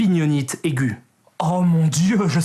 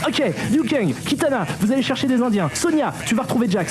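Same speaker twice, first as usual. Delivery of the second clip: higher, brisk, hurried leader; bossy commander voice; 6 semitones higher than usual. Acted. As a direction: rattle off orders like a rushed chief. Impersonating Raiden giving orders. (chef pressé qui donne des ordres)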